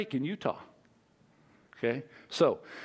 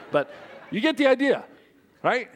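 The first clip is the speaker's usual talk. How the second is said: laughing after panting; 7 semitones higher, 3 dB louder than usual. Real, not acted. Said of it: "I'm sounding like my dog right now".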